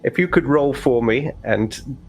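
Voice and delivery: a hint of a measured overseer; slow, considered father voice; lightly voiced overseer weighing it up; stern father. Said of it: "he looks at you and goes".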